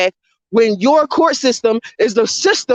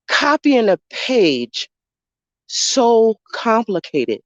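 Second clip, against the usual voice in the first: copying a page so complicated drawn out very slowly; slow exasperated drag; much slower than usual. Real, not acted. Fed-up vlogger to viewers, slow disbelieving drawl. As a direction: stretch every word in disbelief.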